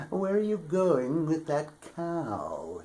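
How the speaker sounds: a hint of a strange little man asking. A narrator's reading. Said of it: "he asked".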